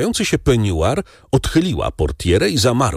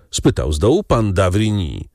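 ordinary delivery

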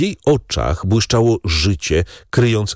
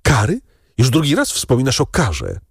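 alarmed wife; 6 semitones higher than usual. Acted. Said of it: "zawołała pani de Villefort".

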